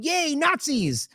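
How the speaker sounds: slow, drawn-out sarcastic cheer; a slow mocking hooray. Mocking the claim, a slow sarcastic cheer. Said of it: "are we pretending he's going".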